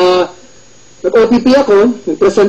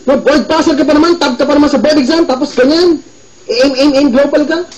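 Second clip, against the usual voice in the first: mother scolding; 6 semitones higher than usual. Retold or imitated. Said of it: "Sabi sa akin ng mama ko".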